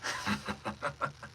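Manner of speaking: soft, deep villain chuckle. Shown as a demonstration. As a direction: sink the chuckle low in the chest.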